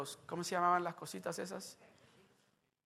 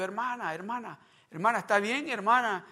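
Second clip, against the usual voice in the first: louder, higher, urgent calling into the phone; calling out anxiously; 5 semitones higher, 7 dB louder than usual. Retold or imitated. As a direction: call her name, worried she won't answer. (llamando con angustia, más fuerte)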